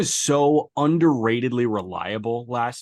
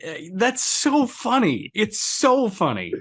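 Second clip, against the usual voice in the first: laughing; 9 semitones higher, 3 dB louder than usual. Real, not acted. Laughing at the story.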